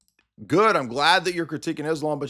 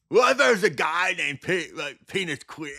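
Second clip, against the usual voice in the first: slightly higher parody voice; lightly voiced mock dope; 4 semitones higher than usual. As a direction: toss off a dumb gag. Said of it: "that's my impression of bear comedy".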